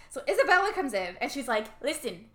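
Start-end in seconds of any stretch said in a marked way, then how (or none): 1.8-2.2 mock Italian accent, pitched up; higher-voiced, imitated Italian accent; a singer's Italian accent. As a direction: put on a hammy Italian accent. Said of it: "my impersonation of a singer's Italian accent".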